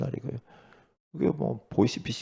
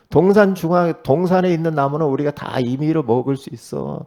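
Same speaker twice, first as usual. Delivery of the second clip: louder, higher, firm declaration; Eve quoting God; 5 semitones higher, 5 dB louder than usual. Retold or imitated. Eve answering the serpent: loud firm declaration. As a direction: state the rule out loud with certainty. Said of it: "말씀 가지고 탁 이제 말을 하잖아요".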